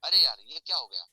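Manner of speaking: loud pained cry from inside the stone. Acted. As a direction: shout it out as the struck stone. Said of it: "अंदर से आवाज आना लगता है". (पत्थर की ज़ोरदार दर्दभरी पुकार)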